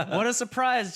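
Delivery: laughing mock surprise; sarcastic. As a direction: drip with sarcasm.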